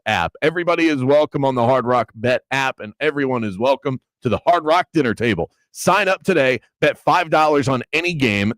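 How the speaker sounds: upbeat sponsor read. Acted. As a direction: read the ad like a radio spot. Reads a sponsor ad.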